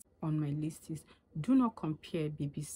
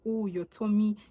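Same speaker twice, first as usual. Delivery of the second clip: mocking gossip; 3 semitones higher than usual. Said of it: "what's the point of you saying".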